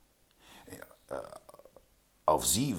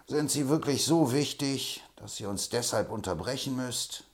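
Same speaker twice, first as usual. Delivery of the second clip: irritated, higher and louder at the start; annoyed question; 7 semitones higher, 5 dB louder than usual. A narrator's reading. Butler irritated at Poller for interrupting the talk. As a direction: resent the interruption. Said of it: "fragte Butler unwillig".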